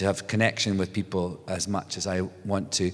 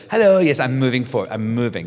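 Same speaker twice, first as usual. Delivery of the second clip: brisk greeting on the move; 2 semitones higher, 4 dB louder than usual. Retold or imitated. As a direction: greet fans without breaking stride. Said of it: "Mine is sort of like".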